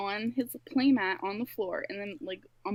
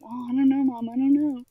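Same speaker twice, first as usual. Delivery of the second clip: innocent fib; 3 semitones higher, 8 dB louder than usual. Retold or imitated. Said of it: "And I was like".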